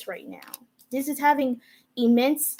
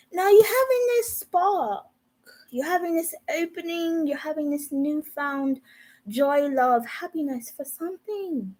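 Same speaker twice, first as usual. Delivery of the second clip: odd high voice; 4 semitones higher than usual. Real, not acted. Tarot reader telling Capricorns their card, in an odd high voice. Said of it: "why am I speaking like this?".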